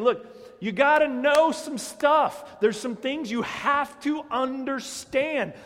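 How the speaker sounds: high, loud exasperated rebuke; Paul's rebuke. Acted. Paul scolding believers who want to keep sinning, shouting high. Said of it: "that's actually the way he says it".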